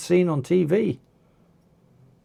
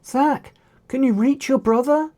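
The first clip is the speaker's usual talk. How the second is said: raised, higher call across the fight; shouted; 7 semitones higher than usual. A narrator's reading. Rhea shouting to Zack across the brawl. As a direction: yell over the crowd to him. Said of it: "shouted Rhea".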